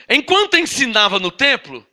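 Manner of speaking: "Enquanto ensinava no templo" read as narrative, falling at the end; intonation shown. Shown as a demonstration. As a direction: read it out like telling a story. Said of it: "olha a entonação". (entonação de quem conta história)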